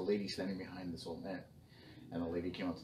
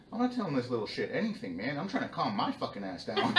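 higher, louder, laughing through it; half laughing, exasperated grandpa; 5 semitones higher, 5 dB louder than usual. Retold or imitated. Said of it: "I'm like".

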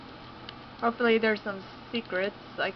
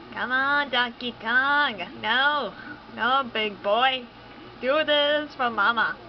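pleading encouragement. Real, not acted. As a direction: coax him on like a mom. Urging character on.

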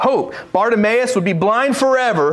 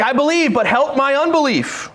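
higher, urgent re-enactment; frustrated plea; 5 semitones higher than usual. Retold or imitated. Father torn by doubt begs Jesus, frustrated plea. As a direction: insist and beg at once, pitch raised. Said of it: "He's frustrated".

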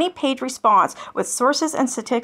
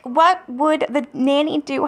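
mocking quote; 3 semitones higher, slower than usual. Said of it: "just like".

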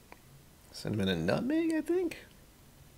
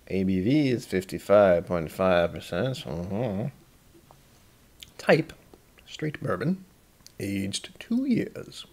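Southern gentleman voice; slower than usual. Acted. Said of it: "that Southern gentleman voice".

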